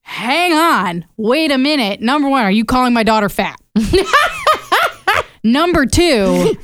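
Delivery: defending the cat with laughing outrage; mock outrage. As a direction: play up your offense for the cat.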